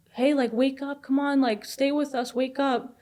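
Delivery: imitating a worried parent's urgent coaxing; retold urgent pleading. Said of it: "he's freaking out now".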